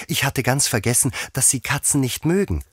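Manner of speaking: Alice apologising in a high voice; exclaimed apology. A narrator's reading. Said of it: "rief Alice schnell".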